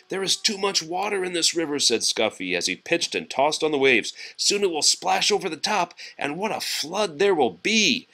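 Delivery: worried tugboat. Acted.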